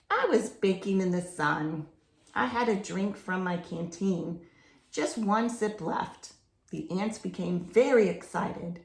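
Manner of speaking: reading a picture book aloud; story narration. A narrator's reading. Reading a jungle story to children, storybook narration. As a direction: tell the jungle adventure to children, storybook pace.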